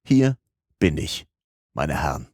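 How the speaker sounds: calm, measured, with pauses between phrases; composed announcement. A narrator's reading. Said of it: "mit seiner gelassenen Stimme sprach".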